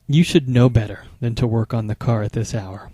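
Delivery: hushed, scolding rhetorical jab; lightly voiced scolding partner in a whisper; reproachful whisper. Shown as a demonstration. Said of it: "You can hear the tone in my voice".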